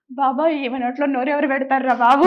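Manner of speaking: imitating mom. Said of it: "మా అమ్మ ఎలా అంటే".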